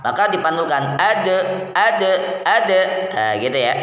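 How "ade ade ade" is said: "ade" with the d bounced out in a short echo; bouncing qalqalah. Shown as a demonstration. Teacher shows qalqalah bounce on dal to students. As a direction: let the d rebound, qalqalah. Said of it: "hendaknya dipantulkan kolkolah".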